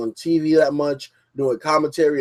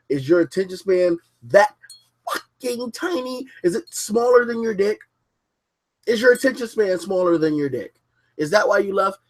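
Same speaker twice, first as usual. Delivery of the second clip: higher, needling taunt at a viewer who left; mock taunting rant; 6 semitones higher than usual. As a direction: jeer at them, pitch up. Mock tirade at departed viewer.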